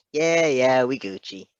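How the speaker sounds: loud breezy brush-off that drops off; sassy nurse. A narrator's reading. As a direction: toss it off like it's nothing.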